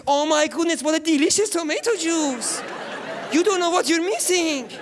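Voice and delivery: high, hammed-up cheering; mock cheering sisters. Sisters cheering the tomato juice to tempt him, high and hammy. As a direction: oversell the juice with fake delight. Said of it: "they're all cheering tomato juice".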